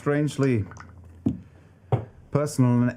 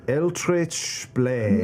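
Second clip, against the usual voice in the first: imitating Ford; 6 semitones higher, much slower than usual. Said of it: "What if you did a little Ford?".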